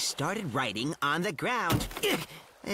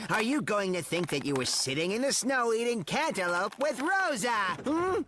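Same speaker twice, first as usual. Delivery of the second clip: rising, higher-pitched challenge; indignant; 6 semitones higher than usual. Acted. Forgotten friend challenges the others' bad memory, indignant. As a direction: build up to a high, pointed question.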